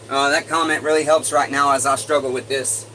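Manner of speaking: lifted and loud. Real, not acted. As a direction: carry the energy while excusing yourself.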